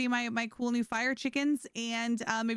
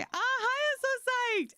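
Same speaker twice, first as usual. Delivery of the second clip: mock psyched; 13 semitones higher, slower than usual. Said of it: "don't ask me".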